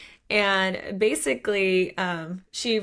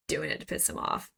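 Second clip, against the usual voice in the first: whispered aside; 6 dB quieter, faster than usual. Real, not acted.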